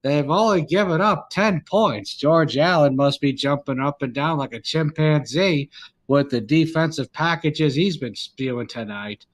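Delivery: sportscaster calling a run in a measured, punched cadence; old-time play-by-play voice, hitting each phrase; Howard Cosell. Acted. Mock broadcaster calling the game for friends, Howard Cosell impression.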